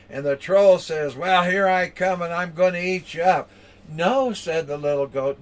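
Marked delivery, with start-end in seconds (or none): 1.2-3.5 lightly voiced troll threat, raised and louder; a storyteller's mock menace; threatening troll. Troll threatens little goat. 3.9-4.3 lightly voiced goat, high and loud; a raised, mock-alarmed refusal; protesting little goat. Little goat pleads with troll.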